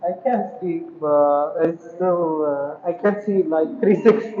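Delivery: muffled through a full face mask; behind mask. Real, not acted. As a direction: talk from inside a helmet mask. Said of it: "talk with this mask on".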